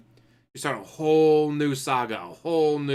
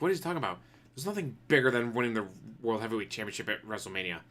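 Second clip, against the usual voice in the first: confused announcer; 3 semitones lower, 6 dB quieter, faster than usual. Retold or imitated. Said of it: "the announcer's like".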